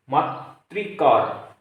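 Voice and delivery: very slow teacher's demo; slowly drawn out. Shown as a demonstration. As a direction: stretch मातृकार out slowly, letting the री ring. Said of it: "मातृ plus कार".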